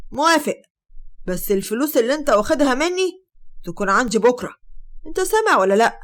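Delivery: loud threatening demand; angry uncle. Acted. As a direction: push every word, loud and cold. Uncle demands his money back.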